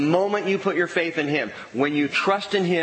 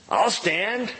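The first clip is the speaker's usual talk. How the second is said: put-on young believer; 6 semitones higher than usual. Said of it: "that's the young believer".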